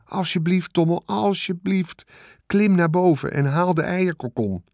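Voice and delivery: put-on a young pig begging for help; pleading pig Wilbur. Wilbur begging the rat to fetch the egg sac, urgent pleading.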